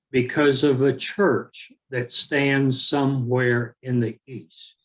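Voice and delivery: unhurried recitation with long pauses between lines. Shown as a demonstration. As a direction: let each line of the poem settle before the next. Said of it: "say it again a little bit slower this time".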